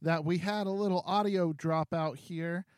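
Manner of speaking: quiet, muffled backup recording; low quality stream. Real, not acted. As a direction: sounds like a weak backup mic. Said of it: "you'll be hearing my backup audio".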